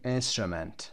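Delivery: instrument with "u" and "e" reduced, "IN-strə-mənt"; weak schwas in the last two syllables of instrument; correct schwa pronunciation. Shown as a demonstration. Teacher modelling the reading, both vowels as schwa.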